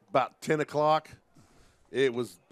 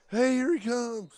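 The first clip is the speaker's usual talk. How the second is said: high-pitched mock alarm; play-acted lookout yell; mock warning call; 11 semitones higher, 3 dB louder than usual. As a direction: warn a teammate in hammed-up panic. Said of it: "he's probably like".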